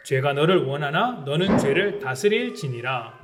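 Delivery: measured, solemn Bible reading; scripture reading. Acted. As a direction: read the verses out to the congregation. Reads Genesis passage aloud. (성경 봉독하듯 엄숙하게)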